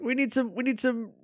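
very high, squeaky put-on voice; mock dismissive. Mocking game makers shrugging off a plot hole, high and dismissive. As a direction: wave it away in a silly high voice.

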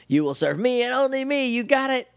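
high, imperious witch-queen voice; villain Rita. Retold or imitated. Rita voiced threatening Kat.

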